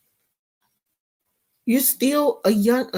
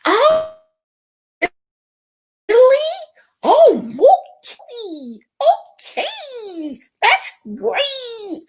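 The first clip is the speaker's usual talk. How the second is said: much higher, sugary mock-sweet voice; fake nice; 12 semitones higher, slower than usual. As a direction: play the fake-nice mom. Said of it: "Even though it comes off fake".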